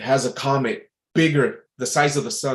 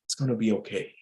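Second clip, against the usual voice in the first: softer, gentle reassurance; 5 dB quieter, faster than usual. Retold or imitated. Every man comforting his family before the comet, softly reassuring. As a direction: hush it down, steady and kind.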